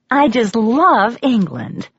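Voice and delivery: waitress asking the English guest where she's from; gushing waitress. Acted. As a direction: swoon over the accent in a high, slow waitress voice. Waitress gushing about England.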